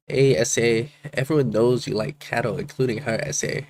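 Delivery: badly faked Mexican accent; half-hearted stab at a Mexican accent; attempted Mexican accent. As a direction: try a Mexican accent and miss. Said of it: "I can't do a Mexican accent".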